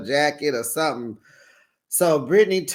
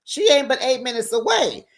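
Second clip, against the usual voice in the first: high, louder challenging; heated retort; 8 semitones higher, 4 dB louder than usual. Retold or imitated. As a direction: dare her, raised voice. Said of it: "She said".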